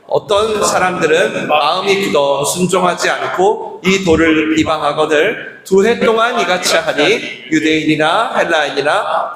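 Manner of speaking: measured congregational Bible reading; scripture reading aloud. Real, not acted. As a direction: read the verse evenly, phrase by phrase.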